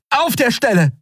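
captain ordering a release; commanding. Acted. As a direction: snap out a command to let go. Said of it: "befahl Endriel".

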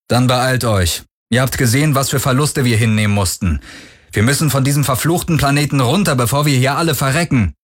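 high-pitched, insistent warning; urgent survivors' leader. Acted. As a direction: urge them to get moving. Parker urges escape in story.

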